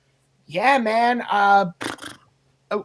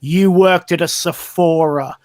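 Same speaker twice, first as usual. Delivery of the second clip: retold cutting insult; 5 semitones lower, 3 dB louder, slower than usual. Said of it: "leans right up into her face and goes".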